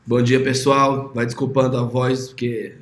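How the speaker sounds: hoarse from a cold; raspy, hoarse voice while recovering. Real, not acted. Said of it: "tô me recuperando de um resfriado".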